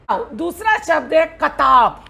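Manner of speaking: usual speaking voice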